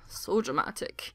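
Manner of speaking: whisper. Real, not acted. Whispered aside while reading.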